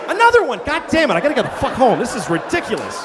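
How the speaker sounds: exasperated victim. Acted. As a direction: yelp as it happens again. ATM victim hit again.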